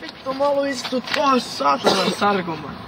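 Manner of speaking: thick slurred words, muttered curses. Real, not acted. Drunk man slurring curses at his friends.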